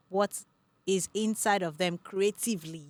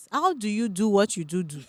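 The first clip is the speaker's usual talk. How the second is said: loud, playful put-on accent voice; 6 dB louder than usual. Host playfully repeats in put-on voice.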